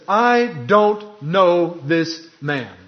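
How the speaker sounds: slow, drawn-out, hammered denial; passionate denial. Acted. Peter swearing he doesn't know Jesus, emphatic. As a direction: spit it out, every word weighed. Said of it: "he denies with cursing and swearing".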